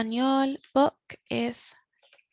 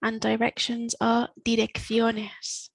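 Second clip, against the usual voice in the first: slow; slower than usual. Shown as a demonstration. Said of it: "So in Spanish".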